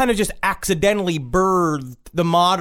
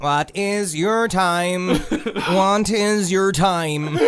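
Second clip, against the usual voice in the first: sing-song voice; 2 semitones higher, much slower than usual. Retold or imitated. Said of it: "high-pitched, sing-song voice".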